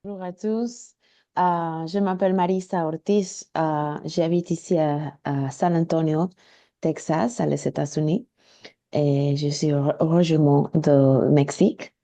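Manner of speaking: Spanish-accented French, a learner speaking; careful French with a Mexican Spanish accent; foreign accent in french. Real, not acted. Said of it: "mon français, c'est pas très bon".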